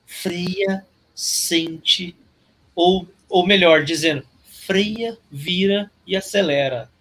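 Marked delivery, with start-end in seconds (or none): 0.1-2.2 calm voice. Retold or imitated. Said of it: "lembrar uma voz com calma falando". 4.4-6.9 calm voice. Retold or imitated. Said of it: "E é a voz calma".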